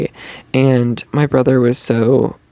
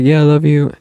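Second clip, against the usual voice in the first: Mingi's chill reply. Retold or imitated. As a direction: say it easy and laid-back, like Mingi. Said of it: "He was like".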